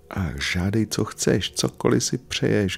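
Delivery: high, eager little soul's outcry; excited cry. A narrator's reading. Little soul offers her friend anything, excited high cry. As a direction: cry out eagerly, high without much volume. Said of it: "křičela malá dušička".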